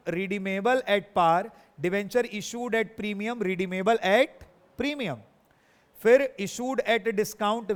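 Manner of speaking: slow, word-by-word dictation of each case. Shown as a demonstration. Teacher dictating debenture cases to the class, slowly. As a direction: spell the cases out slowly so students can write.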